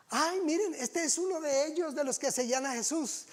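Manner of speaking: a hint of a nosy girl calling out; accusing servant girl.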